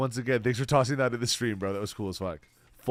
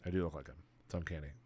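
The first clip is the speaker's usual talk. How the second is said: Arthur Morgan impression; 6 semitones lower, 12 dB quieter, much faster than usual. Streamer to chat, trying an Arthur Morgan voice, low and soft. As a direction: sink the voice down like a rugged outlaw. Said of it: "Do I sound like Arthur Morgan?".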